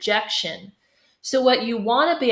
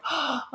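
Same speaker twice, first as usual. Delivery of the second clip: pleased gasp; 5 semitones higher, 9 dB quieter than usual. Retold or imitated. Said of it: "You might be".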